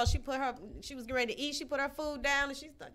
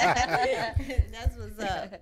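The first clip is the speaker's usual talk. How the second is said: words through a laugh; 5 dB louder, much slower than usual. Real, not acted. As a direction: laugh while saying it. Laughing after the joke.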